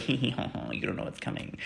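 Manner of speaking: giggling menace, dropping to a breathy hush; 1 mock ominous taunt. God teasing the narrator with a sinister hush. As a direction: tease like a sinister god, then go hushed.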